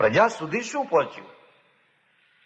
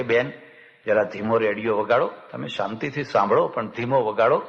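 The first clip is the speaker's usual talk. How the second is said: gentle polite request; 5 semitones lower than usual. Retold or imitated. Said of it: "પ્રેમથી, શાંતિથી કહેવા ગયા કે".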